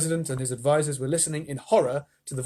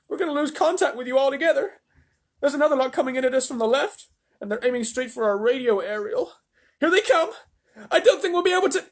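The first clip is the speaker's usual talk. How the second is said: higher, loud radio shout; shouting astronaut; 12 semitones higher, 5 dB louder, faster than usual. A narrator's reading. Shanks shouts to the president, higher and loud. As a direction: yell the report.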